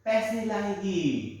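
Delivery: very slow, spelling out each word; slow emphatic repeat. Shown as a demonstration. Teacher repeating the punchline slowly for the students. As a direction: drag it out so the kids catch it. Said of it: "पहले सुनो बच्चा".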